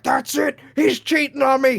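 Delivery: high-pitched mock female indignation; imitated outraged girlfriend. Girlfriend suspecting cheating, imitated outrage. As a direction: mimic her jumping to conclusions. Voices girlfriend jumping to conclusions.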